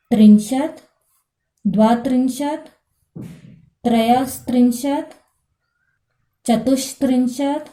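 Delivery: Sanskrit numbers recited one by one, each clearly articulated; careful recitation. Shown as a demonstration. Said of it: "देखो". (संस्कृत संख्याओं का धीमा, स्पष्ट उच्चारण)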